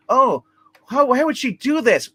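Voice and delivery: high, loud mock wail; acted-out cry of shock, pitched high; retold distraught wife. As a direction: imitate a mother crying out in dismay. Acting out wife finding her daughter.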